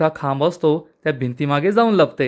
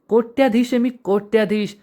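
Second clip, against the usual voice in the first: higher-pitched proud boast; boastful; 6 semitones higher than usual. A narrator's reading. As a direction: brag about being rich. Boasting of his wealth in narrated scene.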